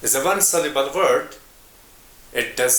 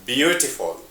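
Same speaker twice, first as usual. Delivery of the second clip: "Beautiful" with its first syllable "Beau" stressed; "Beautiful" as BEAU-ti-ful. Shown as a demonstration. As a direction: put the emphasis at the start of "Beautiful". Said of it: "The stress is in the first syllable".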